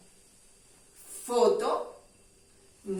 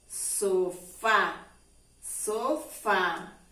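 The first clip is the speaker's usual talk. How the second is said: "Sofá" split in two, with a weighty final "fá"; fuerza en la última; 3 semitones lower, much slower than usual. Shown as a demonstration. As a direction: land firmly on the last syllable of "Sofá". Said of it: "mayor fuerza en esta última letra". ("Sofá" marcando con fuerza la "á" final)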